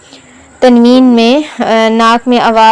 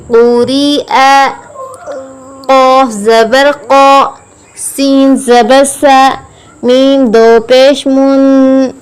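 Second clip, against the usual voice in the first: slow, measured syllable-by-syllable recitation; Qaida spelling recitation; 2 semitones higher, slower than usual. Shown as a demonstration. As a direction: chant each letter and vowel evenly, holding the endings. Spells out Arabic syllables for learners.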